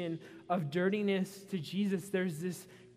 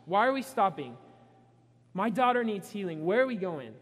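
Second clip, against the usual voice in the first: mock-exasperated, a bit louder; impatient Jairus; 5 dB louder than usual. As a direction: hurry them on, fed up. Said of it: "I'm pretty ticked at the woman".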